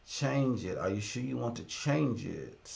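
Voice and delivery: low, soft, drawn-out reading to self; talking to oneself. Real, not acted. Streamer reading a computer prompt to himself, quietly. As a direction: read it softly under your breath.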